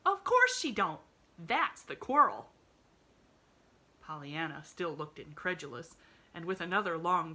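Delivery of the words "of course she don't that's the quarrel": loud, scornful reply. Acted. Maid scoffs at the girl, loud. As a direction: scoff at her. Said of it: "gave her a scornful glance".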